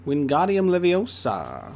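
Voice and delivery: slow, stretched-out Leviosa, like an incantation; spell pronunciation. Acted. Player jokes about pronouncing the Angaran word, drawn-out spell pronunciation. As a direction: draw out Wingardium Leviosa slowly. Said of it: "is how you pronounce that one".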